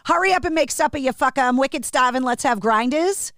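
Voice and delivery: demonstrating Boston accent and slang; thick Boston accent, r's dropped; local Boston accent. Shown as a demonstration. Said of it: "This is the sentence that I tell people".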